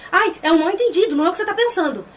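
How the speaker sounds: put-on defensive pleading; mock excuse. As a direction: act out a hasty denial. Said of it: "o embuste ainda fala assim".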